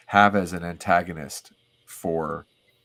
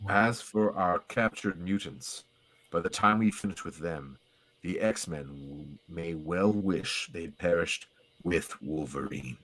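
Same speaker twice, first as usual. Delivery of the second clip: menacing villain voice; 5 dB quieter, slower than usual. Acted. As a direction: savour the threat slowly.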